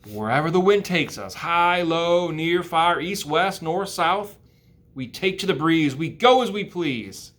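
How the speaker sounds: small, high spider voice; lightly voiced baby spider; spider child voice. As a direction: pipe up like a tiny spider.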